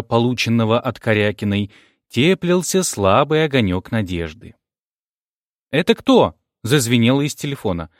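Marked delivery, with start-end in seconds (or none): 5.7-6.4 put-on child's voice. A narrator's reading. Child answering phone.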